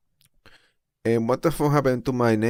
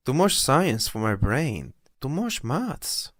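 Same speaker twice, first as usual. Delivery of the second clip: mock whine; 4 semitones higher, slower than usual. Mock complaint about the science.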